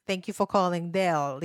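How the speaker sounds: lightly imitated Indian call-centre agent; a hint of an Indian accent on a phone greeting. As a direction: put on a mild Indian accent. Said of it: "if I imitate them, then I will be like".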